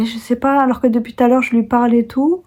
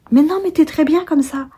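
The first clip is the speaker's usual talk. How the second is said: higher-pitched, protesting reassurance; mock friendly reassurance; reassuring friend; 8 semitones higher than usual. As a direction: play the friend brushing the worry away. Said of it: "si la copine me dit".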